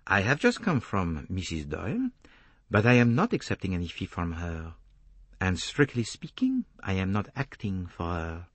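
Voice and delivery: put-on lightly accented detective; measured correction in a detective's voice; Poirot, measured. Detective denies working for the wife, measured accented voice.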